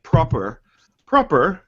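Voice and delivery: tentative go at a British accent; attempted British accent. Shown as a demonstration. Host showing how British must be spoken, attempted British accent. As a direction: try saying "proper" like a Brit. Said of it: "British, you actually have to speak".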